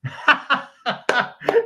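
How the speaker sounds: high, loud burst of laughter; bright laugh. Real, not acted. Laughing at the host's joke.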